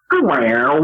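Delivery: swooping reversed-record noise; imitated backwards fart. Comic imitating girl farts as if played backwards, reversed noise. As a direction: mimic a sound played in reverse. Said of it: "sound like they're played in reverse".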